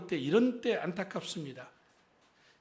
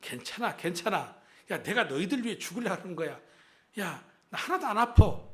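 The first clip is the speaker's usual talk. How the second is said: mock brave Jesus. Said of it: "예수님 정도 되시면 십자가에서".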